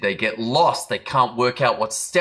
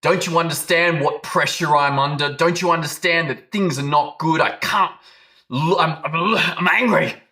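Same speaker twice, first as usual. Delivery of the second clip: higher, louder outburst of mock rage; frustrated husband snapping at his wife, louder and higher; losing it; 7 semitones higher, 4 dB louder than usual. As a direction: blow up at the wife, voice climbing. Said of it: "and you lose it".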